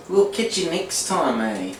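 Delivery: put-on Canadian accent. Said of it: "I can't even do the Canadian accent anymore".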